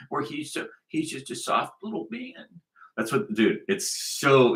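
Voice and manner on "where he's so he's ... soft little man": imitating a soft little man, hushed; mock soft talk. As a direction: talk real soft, mockingly. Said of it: "always try and talk real soft".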